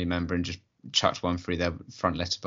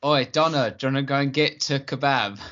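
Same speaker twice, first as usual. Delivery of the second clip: higher mock impression of a mate; hammed-up higher-pitched caricature; impression of Matt; 4 semitones higher than usual. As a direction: send up your friend wanting a kebab. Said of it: "do an impression of Matt".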